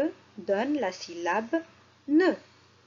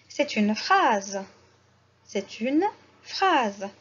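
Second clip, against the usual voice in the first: "C'est une phrase" said slowly; slow answer; slower than usual. Shown as a demonstration. Teacher models the answer slowly for the class. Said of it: "que voyez-vous?".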